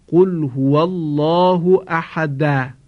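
قل هو الله احد with the final د of احد given a vowel; final dal of احد voiced with a short vowel after it; wrong moving dal. Shown as a demonstration. Teacher demonstrating a wrong recitation of احد. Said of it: "مثلاً کسی بگوید".

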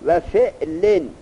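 slow, stretched-out recitation of فعلن; drawn-out reading. Shown as a demonstration. Teacher reads the next pattern فعلن slowly for the student.

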